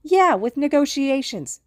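high, loud, drawn-out exasperation; exasperated retort. A narrator's reading. Mitsuki objecting to Hisashi's promise, exasperated retort. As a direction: stretch it out, indignant and loud. Angry argument about giving up.

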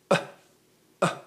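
two short separate glottal "uh"s; demonstrated cough. Shown as a demonstration. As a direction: give small deliberate coughs as an exercise.

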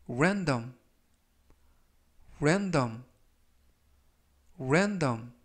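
random, clear and falling; teacher models random three times; model pronunciation. Shown as a demonstration. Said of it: "이라고 발음하시면 되겠고요".

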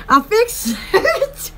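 drawn out through a laugh; slow laughing repeat. Real, not acted. Repeating her window fix slowly, still laughing.

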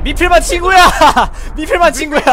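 loud gleeful taunt with laugh; laughing yell. Real, not acted. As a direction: shout the joke, laughing.

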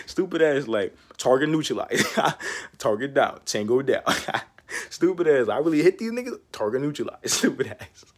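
giggling through mock military talk; laughing. Real, not acted. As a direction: laugh while joking. Laughing at the win.

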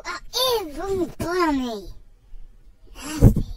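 a sudden loud blurt of disgust; hammed-up loud yuck. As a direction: spit it out, loud and grossed out. Reacts with disgust at the dingo.

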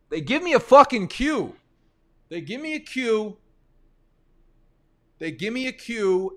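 high-pitched exasperated complaint. Real, not acted. Streamer venting at the draft software's cue, exasperated high voice. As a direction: squeal it up high in disbelief.

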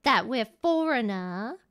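played-up English accent. Streamer explaining to co-host about American viewers, English accent. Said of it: "isn't that English accent".

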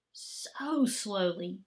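slow, breathy whisper drawn out. A narrator's reading. Narrating the boy's slow smile to children, hushed whisper. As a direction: let the words almost vanish.

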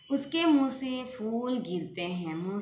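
wrong sentence read out slowly and high; slow dictation of the wrong sentence; slow wrong example. Shown as a demonstration. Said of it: "अशुद्ध वाक्य है।".

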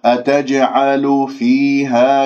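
أتجعل فيها drawn out, kasra on الفاء clear; slow tajweed recitation. Shown as a demonstration. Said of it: "كسرة الفاء".

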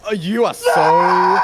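loud, slow exasperated yell; shouting. Real, not acted. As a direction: drag it out in a yell. Shouts at the other.

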